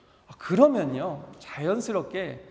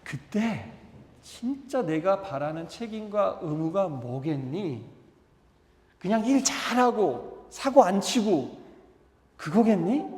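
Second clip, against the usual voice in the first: father's gentle plea; slower than usual. Retold or imitated. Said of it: "이 아버지도 이 맏아들에게".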